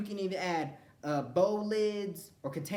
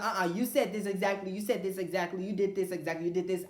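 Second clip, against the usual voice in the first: insistent retold accusation; 4 semitones higher, 3 dB louder than usual. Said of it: "I'll be like".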